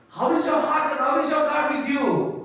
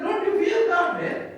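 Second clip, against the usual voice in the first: pleading rebuke; 10 semitones higher than usual. Retold or imitated. Preacher voices thief's rebuke.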